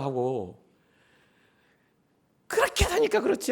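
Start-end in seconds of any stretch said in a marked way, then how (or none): 2.5-3.5 much higher, sneering put-down; mocking a suffering friend with scorn; heartless mockery. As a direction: sneer it like a cold bystander. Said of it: "뭔가 매정하고".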